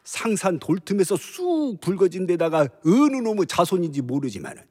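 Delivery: tipsy general mocking his foes; lightly slurred, scornful drunk general; drunk Cao Cao. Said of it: "술 취한 연기예요".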